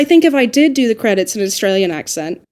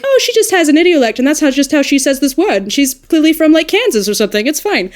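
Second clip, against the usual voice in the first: breezy imagined listener; 5 semitones higher than usual. Retold or imitated. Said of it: "instead of it being like".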